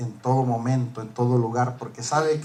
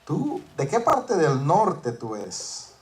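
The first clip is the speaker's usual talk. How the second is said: gentle question; much slower than usual. Retold or imitated. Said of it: "Yo le dije a la señora".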